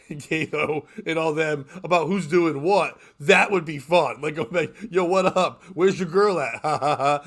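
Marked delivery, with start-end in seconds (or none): 4.9-7.2 mock O J bravado. Voicing O J text thread.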